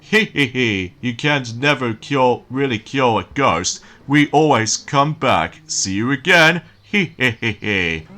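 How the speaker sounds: slow, sly ghost taunt with giggles; sneaky, gloating ghost, slowly; sly nasal snickering whisper. Acted. Boss ghost taunts player.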